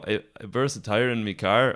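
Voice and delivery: a bad Canadian accent attempt. Shown as a demonstration. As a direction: try a Canadian accent, badly. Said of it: "Do you do a Canadian accent?".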